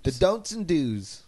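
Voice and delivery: slow, drawn-out sultry voice; sexy voice. Acted. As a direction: purr it slow and seductive. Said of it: "Mister Boom's sexy voice".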